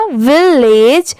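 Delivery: विलेज slowly, as "vil" plus "lej"; slow, drawn-out विलेज for learners; teaching pronunciation. Shown as a demonstration. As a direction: stretch विलेज into its two joined parts. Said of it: "दोनों मिला देंगे".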